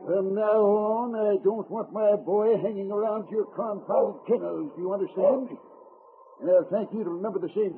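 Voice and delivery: high-pitched irate warning; cross, overbearing father; bad temper. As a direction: lay down the law angrily. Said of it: "In a bad temper".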